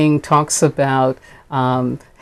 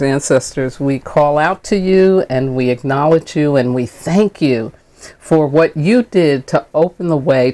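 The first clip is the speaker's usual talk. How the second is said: prayer. Real, not acted. Minister thanking the ancestors and Creator, heartfelt prayer. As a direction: call on them and give thanks.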